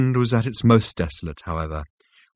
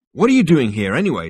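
loud, raised, insistent question; demanding; 6 semitones higher, 7 dB louder, faster than usual. A narrator's reading. Zaphod demands to know why Rooster is here, loudly. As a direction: demand an answer forcefully. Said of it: "demanded Zaphod".

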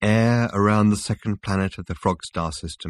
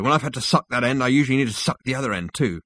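lightly voiced character, a little higher and quick; Rooster explaining; 5 semitones higher, faster than usual. Rooster explains sucking the towel's other end, quick and slightly higher. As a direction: explain it briskly in a slightly raised voice.

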